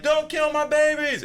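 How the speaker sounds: high, slow, loud pleading bird voice; mother bird pleading for her eggs in a high voice; screaming bird. Retold or imitated. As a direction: beg like a frantic mother bird. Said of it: "it's screaming".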